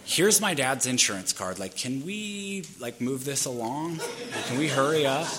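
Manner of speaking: lightly exasperated, pitch lifting on the pleas; impatient. Retold or imitated. Driver rushing the woman he hit, impatient. Hurrying the lady after crash.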